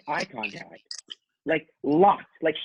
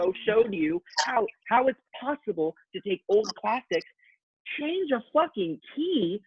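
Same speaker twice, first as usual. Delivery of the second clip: emphatic rising passion; 6 semitones higher than usual. Real, not acted. Fired-up podcaster hammering home a point, voice climbing. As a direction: build the point up with rising pitch.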